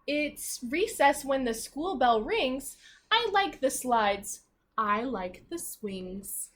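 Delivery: slow, sing-song reading of the rhyme; read-aloud to children. Acted. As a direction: read it slowly to a class of little kids. Reading picture book aloud.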